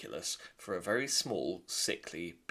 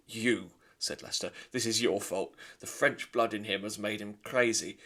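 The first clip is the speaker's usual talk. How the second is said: louder gruff blaming father; stern father mouse; 6 dB louder than usual. Acted. Lester blaming his wife, louder stern. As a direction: point the blame at her.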